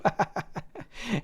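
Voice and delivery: high amused laugh; real burst of laughter. Real, not acted. Vlogger amused by a Schumer headline, laughing.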